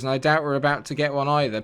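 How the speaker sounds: ordinary talk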